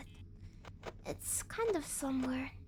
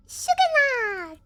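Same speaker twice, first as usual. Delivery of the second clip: 높고 크게 외치는 말; shouted line; 7 semitones higher, 10 dB louder than usual. Pretend. Shouted punchline.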